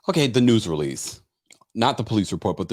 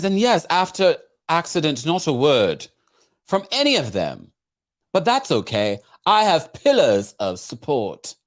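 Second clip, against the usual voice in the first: put-on English accent; 4 semitones higher than usual. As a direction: read her words in an English accent. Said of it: "You might accent right now".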